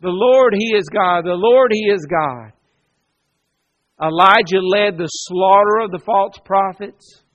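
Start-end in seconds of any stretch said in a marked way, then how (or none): 0.0-2.5 crying out. Retold or imitated. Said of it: "the people cried out".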